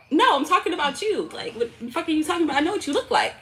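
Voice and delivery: retold protest. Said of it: "I was like".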